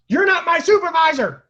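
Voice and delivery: put-on high, loud drunk scream; drunken scream. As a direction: scream it running half-naked.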